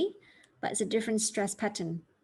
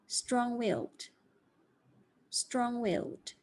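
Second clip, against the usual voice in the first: Strong-willed slow, willed stronger; stress on willed; 3 dB quieter, slower than usual. Shown as a demonstration. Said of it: "I'm going to read these for you slowly".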